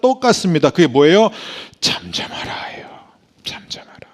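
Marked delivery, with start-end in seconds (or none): 1.8-4.1 whispered, soft be-still; Jesus hushing the crowd in a whisper; hushed command. Acted. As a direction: whisper them into silence.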